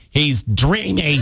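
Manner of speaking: slow, drawn-out swooning; dreamy swoon. Retold or imitated. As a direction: say it like a smitten fan. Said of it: "Ryan said".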